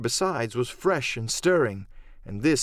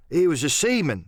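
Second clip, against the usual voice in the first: George Merry; 4 semitones higher, 4 dB louder than usual. Acted.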